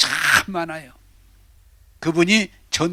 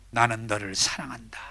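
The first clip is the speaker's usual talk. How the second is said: lower, soft loving words; voice of God; 7 semitones lower, 6 dB quieter than usual. Acted. God speaking to sinners, low and gentle. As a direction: say it as God, tenderly. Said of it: "하시는 말씀은".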